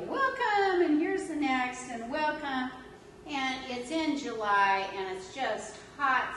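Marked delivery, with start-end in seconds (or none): 0.1-2.7 calling out welcome. Retold or imitated. Greeting parade crowd all day.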